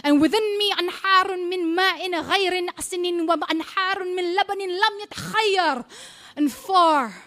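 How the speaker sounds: poetry performance voice, grave and commanding; spoken-word poem. Acted. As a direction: hold the stage and accuse the audience.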